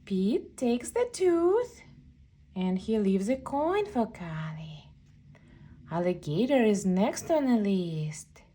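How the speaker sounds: hushed whisper. Acted. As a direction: whisper it like a secret bedtime mission. Whispered reading to child.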